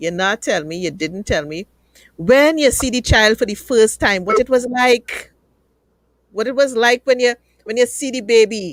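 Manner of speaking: Trinidadian accent all the way. Speaker asks two others what first seeing the child was like, in a Trinidadian accent. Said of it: "let me go into my Trini accent".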